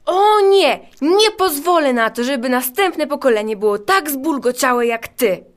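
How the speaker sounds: high, indignant character voice, easing as it goes; angry outburst. Acted. Kreatywność recognizing the prankster, falling into anger. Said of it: "wpadł w gniew".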